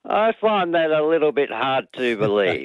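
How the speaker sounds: lightly mock-dramatic catchphrase, falling away at the end; a hint of TV comedy delivery; Get Smart line. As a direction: quote it like a sitcom catchphrase. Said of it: "sounding like a line out of Get Smart".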